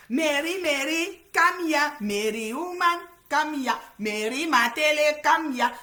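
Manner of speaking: loud high sing-song calling of Mary; mocking call. Livestreamer mockingly calling Mary to come here. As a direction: call her over like a scolding mother.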